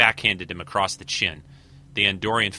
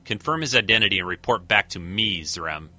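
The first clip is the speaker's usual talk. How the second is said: barked order. Acted. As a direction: bark the order at him. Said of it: "Talbot barked out".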